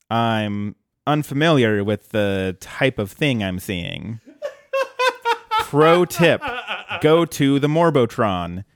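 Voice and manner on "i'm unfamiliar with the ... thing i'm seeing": slow, deliberate puzzled delivery; Calculon's line. Retold or imitated. Calculon staring at Bender, slow baffled line. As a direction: savour each word, baffled. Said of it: "he says".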